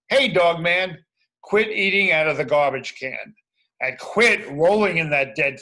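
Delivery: loud telling-off; scolding call. Acted. Kid voicing cops, loudly scolding Dogman. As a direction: shout the scolding at the dog.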